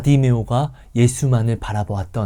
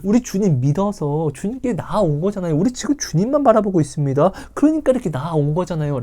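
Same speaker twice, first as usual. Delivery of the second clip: protesting people; 6 semitones higher than usual. Acted. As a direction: innocently plead your devotion. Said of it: "이스라엘 백성은 이야기하는 거예요".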